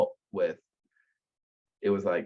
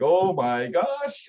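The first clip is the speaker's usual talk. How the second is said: high, slow awed gasp; starstruck gasp; 9 semitones higher, 6 dB louder, much slower than usual. Retold or imitated. Caller meets his childhood cowboy hero, starstruck gasp. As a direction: gush like a fan meeting a hero.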